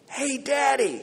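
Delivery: put-on high, small kid calling out; little child voice. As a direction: call to Daddy like a small child. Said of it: "I hear this little voice say".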